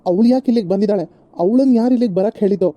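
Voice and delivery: loud, furious questioning; angry demand. Acted. Son to his mother about his wife, loud angry demand. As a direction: demand to know who let her in. Husband angry she came.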